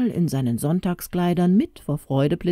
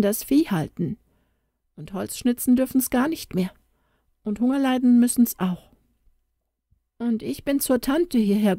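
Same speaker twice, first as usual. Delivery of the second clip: put-on lightly raised little girl voice, sad; a young girl telling grim news, voice lifted higher; child Tona; 6 semitones higher than usual. Little girl tells the stranger her parents died, higher child voice.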